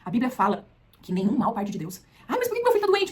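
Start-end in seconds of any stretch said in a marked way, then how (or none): 2.3-3.1 plaintive complaint. Acted. Voiced complaining believer.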